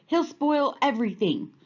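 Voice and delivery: frowning. A narrator's reading. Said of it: "frowned Alligator".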